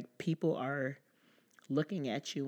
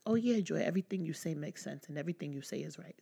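mock eager agreement; 3 semitones higher than usual. Imagined yes-man agreeing with Joy, mock eager agreement. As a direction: imitate someone agreeing with everything. Mimics an uncritically agreeing listener.

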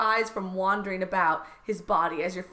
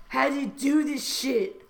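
higher, exasperated character voice; mock frustration; 4 semitones higher than usual. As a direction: grumble as a comic flustered lover. Voices Trump struggling with clasp.

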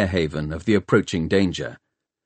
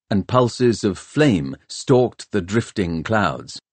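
plain reading voice

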